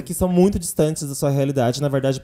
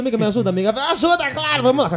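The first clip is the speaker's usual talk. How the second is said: higher, pleading friend quote; 8 semitones higher than usual. Retold or imitated. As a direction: beg your friend for help. Quoting pleas and friend's reply.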